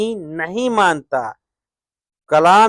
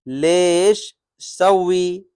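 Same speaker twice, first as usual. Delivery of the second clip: slow demo; much slower than usual. Shown as a demonstration. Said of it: "लेश यानी क्यों".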